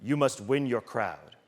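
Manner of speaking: lightly voiced solemn athlete; Ray Lewis. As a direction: hand down advice slowly and gravely. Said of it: "And Ray Lewis said".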